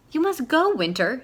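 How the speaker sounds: loud, high shout at Winter. A narrator's reading. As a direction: order him out at full voice. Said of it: "shouted Owl".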